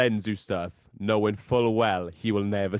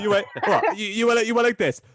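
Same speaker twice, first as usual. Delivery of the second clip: surprised; 11 semitones higher, 5 dB louder than usual. Real, not acted. Friend reacts to shocking story.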